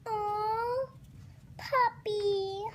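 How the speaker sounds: high, drawn-out coo; adoring coo. Acted. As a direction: coo over a cute puppy. Pigeon dreams of a puppy.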